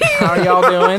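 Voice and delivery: put-on Southern accent. Store worker greeting people walking in, in a Southern accent. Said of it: "a really thick Southern accent".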